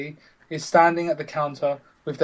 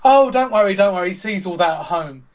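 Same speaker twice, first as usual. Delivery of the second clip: carefree mother; 4 semitones higher, 5 dB louder than usual. Retold or imitated. Retold mother's careless reply.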